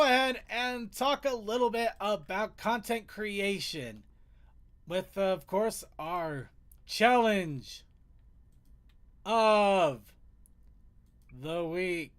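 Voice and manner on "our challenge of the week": announcer voice. Acted. Drawn-out show segment announcement.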